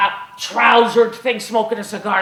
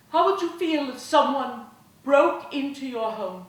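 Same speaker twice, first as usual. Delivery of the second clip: impassioned woman orator; 2 semitones higher than usual. Acted. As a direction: move the mob from plea to grief. Woman's speech to crowd.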